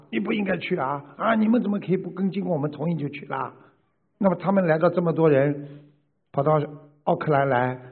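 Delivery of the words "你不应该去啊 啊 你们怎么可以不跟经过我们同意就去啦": higher, faster imitation of someone scolding; mock reproach. Teacher imitating members who blame a fellow practitioner, mock reproach. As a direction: act out an indignant telling-off. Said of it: "而不是指责他".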